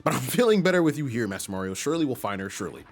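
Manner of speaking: a hint of a formal, deferential steward; lightly voiced old retainer. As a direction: hand over the task as a loyal steward. Voices Toadsworth.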